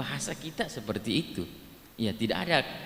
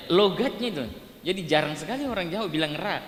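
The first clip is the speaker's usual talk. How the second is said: ordinary talk, nothing marked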